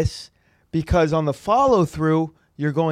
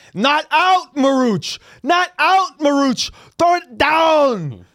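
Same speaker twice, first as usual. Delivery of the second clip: put-on high, loud, shrill scream, stretched out downward; 11 semitones higher, 5 dB louder than usual. Acting out a man who constantly screams about how to throw the ball, imitating his screaming. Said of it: "this dude just constantly is just screaming".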